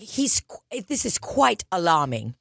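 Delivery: demonstrating a British accent. Shown as a demonstration. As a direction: say it as a Brit would. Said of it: "if you have a British accent".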